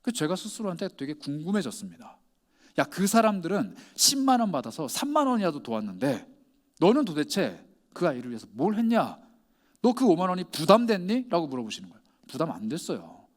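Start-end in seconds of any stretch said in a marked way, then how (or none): 2.8-11.3 louder, pointed mock-rebuke; rebuking questions. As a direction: confront the listener with stern questions, louder. 하나님의 꾸짖는 질문을 옮김. (꾸짖듯 힘주어 따져 묻는 말투)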